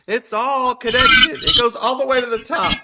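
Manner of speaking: loud, high, wild-eyed conspiracy rant; conspiracy theorist. Pretend. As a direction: ham it up like a conspiracy nut.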